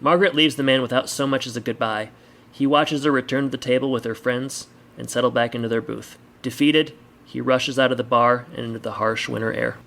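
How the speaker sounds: measured audiobook-style narration; story narration. A narrator's reading. Reader sets a bar scene for listeners, story narration. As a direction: read the story aloud with deliberate phrasing.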